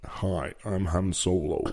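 slow, soft, low-key impression; terrible Han Solo. Host mocks up Han Solo for his co-host, terrible impression. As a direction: do a bad Han Solo, drawn out. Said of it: "That's a terrible Han Solo".

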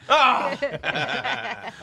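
sudden high "ah" breaking into laughter; yelp, then laugh; high exclamation. Real, not acted. Host reacting to accent critique, high laughing cry.

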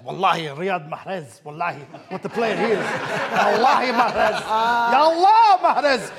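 put-on playful Arabic accent with wallahi. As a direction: gush about Mahrez in an Arabic accent. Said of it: "I'm gonna keep talking in the Arabic accent".

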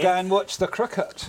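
playful mock New Zealand accent. Comedian extending the key word into a phrase, New Zealand accent. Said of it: "if I was gonna do a New Zealand accent".

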